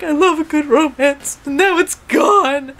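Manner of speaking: high-pitched pouty lament; mock sad. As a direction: imitate a heartbroken cartoon romantic. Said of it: "Kuguru's all sad and stuff".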